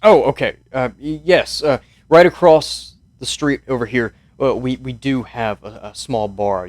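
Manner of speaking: a lightly voiced weary old mayor; mild, unhurried old man asking for sleep; tired old mayor. Old mayor tells soldiers he needs his sleep, lightly voiced.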